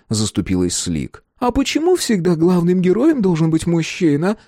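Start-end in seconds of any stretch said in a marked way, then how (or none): 1.4-4.4 high, indignant question; mild indignation, voiced high. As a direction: push back, offended. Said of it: "снова возмутилась Мэри Эллен".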